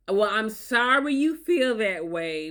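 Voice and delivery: slow, drawn-out insincere apology; fake apology. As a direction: apologise without meaning it. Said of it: "they use phrases like".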